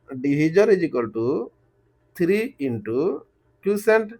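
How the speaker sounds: very slow, one word at a time; slow dictation. Real, not acted. Teacher dictating the formula to students, very slowly. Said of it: "इतना धीरे-धीरे बोल रहा हूँ".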